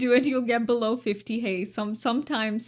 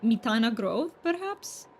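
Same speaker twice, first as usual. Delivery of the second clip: overdone Romanian-accented English; almost fake-sounding Romanian accent, played for fun; Romanian accent attempt. Shown as a demonstration. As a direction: roll the R's too much in a mock Romanian accent. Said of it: "they don't roll their R's as much as I do".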